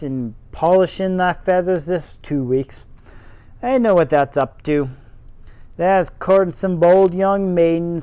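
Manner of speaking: loud sarcastic Yorkshire gardener; faux Yorkshire accent. Gardener sarcastic at the robin, in loud faux Yorkshire. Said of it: "my terrible faux Yorkshire accent".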